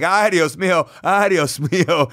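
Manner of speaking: hammed-up cry of alarm, drawn out on the repeat; oversold panic. Wrestler fleeing the Invader's table, in oversold mock panic. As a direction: overplay the dismay for comic effect. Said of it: "overplaying it, really overselling it".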